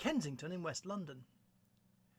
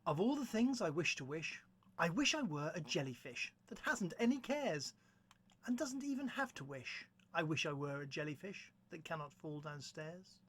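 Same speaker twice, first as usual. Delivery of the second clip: measured poetry reading, lines set apart; poem recitation. Acted. Presenter opening a poetry reading with a triolet, measured recitation. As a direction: recite the verse with clear pauses.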